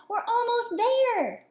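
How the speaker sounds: high, loud urgent shout; anxious call. Acted. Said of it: "an anxious voice called".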